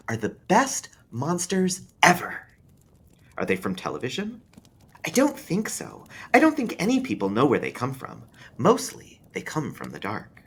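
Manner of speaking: put-on a child sharing spooky lore; young boy, hushed and earnest; small boy. A narrator's reading. Boy explains click-clacks.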